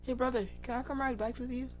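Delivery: high whiny little sister voice; Sydney imitation. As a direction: pitch way up and whine like a kid. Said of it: "your imitation".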